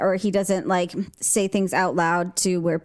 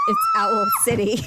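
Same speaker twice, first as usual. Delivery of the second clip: much higher and louder, spelling it out for her; loud repeat. Retold or imitated. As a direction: say the band name again, loud and clear this time. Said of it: "And he says".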